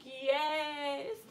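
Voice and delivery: breathy whispered yes. Retold or imitated. Stoned girl whispering yes to brother on phone. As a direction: whisper it guiltily. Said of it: "And I'm like".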